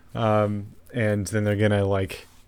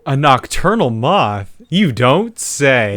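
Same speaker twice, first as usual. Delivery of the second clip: sarcastic; 4 semitones higher, 4 dB louder, slower than usual. Real, not acted. Sarcastic reply to obvious fact.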